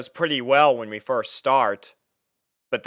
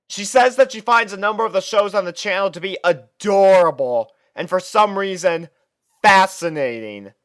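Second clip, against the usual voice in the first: higher and louder, an exasperated tirade, with a shouted and slowed "driving me insane"; exasperated rant; 7 semitones higher, 6 dB louder than usual. Acted. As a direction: vent every grievance at the top of your voice. Narrator venting about roommate.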